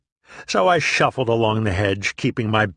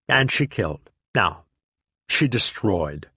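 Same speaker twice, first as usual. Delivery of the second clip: plain reading voice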